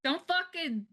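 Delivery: high, heated mock rant; mock scolding. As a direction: scold him like a fed-up parent. Mock scolding of a lazy cohost.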